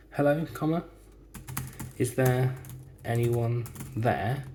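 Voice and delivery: teacher voicing a character calling out. Shown as a demonstration. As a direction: call out to a stranger.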